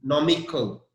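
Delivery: nomical with no stressed. Shown as a demonstration. Teacher isolates the stressed part for the class. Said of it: "the stress is on N O".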